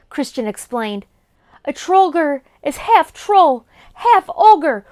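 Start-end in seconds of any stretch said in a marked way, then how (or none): 1.7-4.9 urgent. Acted. Urgent explanation to goblin.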